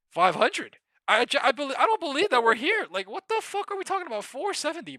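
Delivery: very high, loud, sputtering disbelief; incredulous shout. Real, not acted. Trader staring at the stock price, incredulous shout. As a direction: yell it like you can't believe it.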